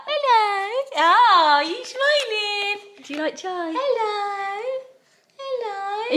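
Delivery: high cooing pet voice. Real, not acted. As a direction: coo at the puppy. Cooing at puppy.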